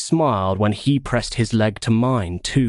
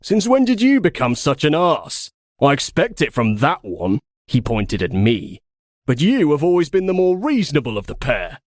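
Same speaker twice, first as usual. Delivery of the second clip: snarling rebuke; 5 semitones higher than usual. Acted. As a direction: snap back, offended. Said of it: "Hayden snarled at Axios".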